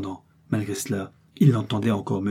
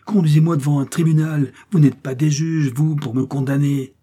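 loud, high indignant outcry; howling protest; 6 semitones higher, 7 dB louder than usual. A narrator's reading. A captive woman demanding a tribunal, howling protest. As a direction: demand justice, voice raised throughout. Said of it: "hurla Milady".

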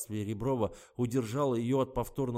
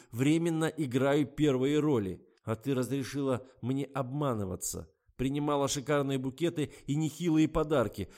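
angry exclamation; 5 semitones higher, 7 dB louder than usual. A narrator's reading. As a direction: lash out at her deceit. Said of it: "гневно воскликнул Гарик".

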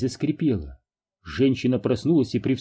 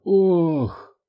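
moan; 5 semitones higher than usual. A narrator's reading. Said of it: "застонала мама".

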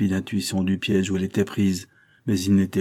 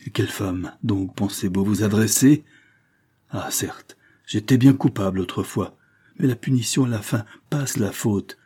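defiant reproach; 3 semitones higher than usual. Acted. Madame Fauvel refusing the marquis, building defiance. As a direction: throw the blame back at him, building.

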